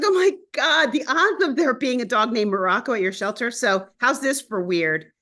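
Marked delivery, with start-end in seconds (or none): 0.0-3.5 higher-pitched exclamation, easing toward usual voice; retold upset. Telling how upset she was about the shelter dog, retold upset. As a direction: recount your exasperated disbelief. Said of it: "I was so upset".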